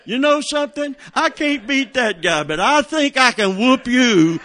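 high, loud mock challenge, laughing; a laughing, hammed-up threat; mock tough guy. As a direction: play the fighter squaring up to the corner man, grinning. Joking threat to the corner man.

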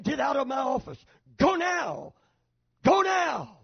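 a half-hearted retold shout, rising on go now; a preacher imitating his own agitated yell. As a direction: push them out of the office, sharply. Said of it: "raised in volume, very agitated".

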